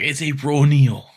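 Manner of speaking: lightly voiced villain shouting her full name; a hint of Shredder calling out April O'Neil; mock Shredder call-out. Host imitating Shredder naming April, mock villain call. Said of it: "he always calls out, like, her whole name".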